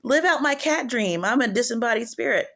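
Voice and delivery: high, sing-song mock cat demon. Demon luring a kid, high mock meowing. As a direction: tease like a demon playing cat. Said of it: "a demon comes in and is like".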